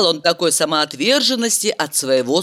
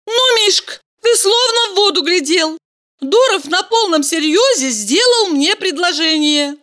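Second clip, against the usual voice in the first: proudly; 12 semitones higher than usual. A narrator's reading. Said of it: "с гордостью заявила".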